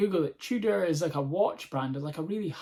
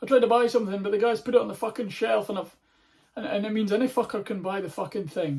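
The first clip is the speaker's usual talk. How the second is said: grumbling rant; 4 semitones higher, 4 dB louder than usual. Retold or imitated. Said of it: "He went".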